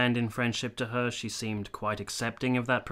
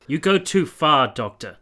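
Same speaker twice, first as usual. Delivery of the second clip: sharp, louder and higher rebuke; offended officer cutting the doctor off; indignant outburst; 4 semitones higher, 8 dB louder than usual. Acted. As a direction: bristle at the insult, snap it back. Captain bristles at doctor's insult.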